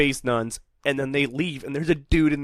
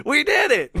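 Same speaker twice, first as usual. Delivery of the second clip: excited cheer; 13 semitones higher, 3 dB louder than usual. Pretend. Celebrating as the fan.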